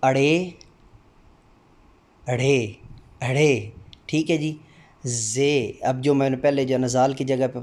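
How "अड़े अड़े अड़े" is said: अड़े with a retroflex flap ड़, said three times; letter sound demo. Shown as a demonstration. Teacher modelling the letter अड़े for students, deliberate. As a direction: tap the tongue back for अड़े. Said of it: "रहना में जो आता है ना तो उसमें रे".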